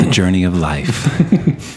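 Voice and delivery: slow, dramatic narrator read; trailer narrator voice. Acted. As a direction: intone it like a movie trailer. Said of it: "You have such a great voice for this".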